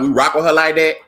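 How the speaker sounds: Black vernacular accent leaned into on purpose; playful Black vernacular accent. Real, not acted. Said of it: "You heard that accent come out".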